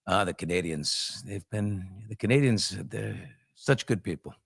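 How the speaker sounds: a hint of Trump at the podium; Trump impersonation. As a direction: ramble through it like a politician on a roll. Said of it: "I gotta stop the Trump impersonation".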